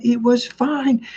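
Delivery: high, drawn-out insistence; hammed-up strained retort; mock exasperated husband. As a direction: imitate a fed-up man, stretching each word up high. Husband losing patience at third asking.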